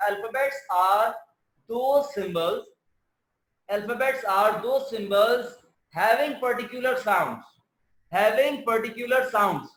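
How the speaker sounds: very slow, word by word definition; slow dictation. Shown as a demonstration. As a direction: dictate it slowly so they can write. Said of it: "अब मैं यहाँ पर आपको पूरी definition बताता हूँ".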